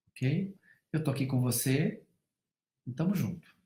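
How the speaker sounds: calm her down tenderly, like a father; soothing father. Retold or imitated. Father comforting his crying daughter.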